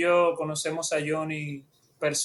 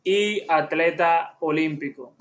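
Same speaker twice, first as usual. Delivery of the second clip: louder, put-on sports commentator announcement; hyped-up show intro; 4 dB louder than usual. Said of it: "tú pareces comentarista de televisión".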